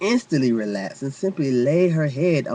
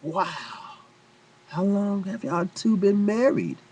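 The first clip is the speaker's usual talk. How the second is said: nervous question; 8 semitones higher than usual. Retold or imitated. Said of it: "nervously ask".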